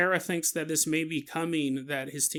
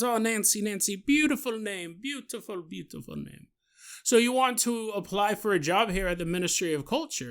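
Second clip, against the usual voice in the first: put-on French accent; 3 semitones higher than usual. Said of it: "You're gonna do this stupid accent".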